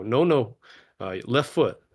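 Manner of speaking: loud, urgent correction; urgent calling out. Acted. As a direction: call out a quick fix to a partner. Coaching companion stumbling in snow.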